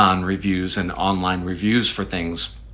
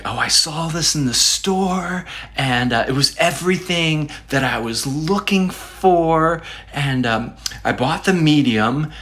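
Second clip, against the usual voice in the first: lightly acted, lilting higher-pitched delight; hopeful review read; 3 semitones higher than usual. Reviewer recounting a happy buy to online readers, mildly gushing. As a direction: gush mildly about a new purchase.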